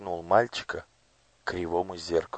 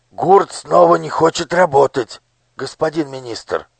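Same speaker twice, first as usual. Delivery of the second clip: higher, louder eager report; respectful overseer; 9 semitones higher, 13 dB louder than usual. A narrator's reading. Overseer respectfully reports to the minister. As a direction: report up to your master dutifully. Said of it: "почтительно проговорил надсмотрщик".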